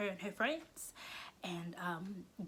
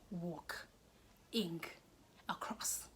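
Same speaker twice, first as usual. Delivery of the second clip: each word set apart by a pause; deliberate word-by-word; 5 dB quieter, much slower than usual. Retold or imitated. Showing how she strutted past him, slow and spaced out. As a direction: space out the syllables, quiet and deliberate.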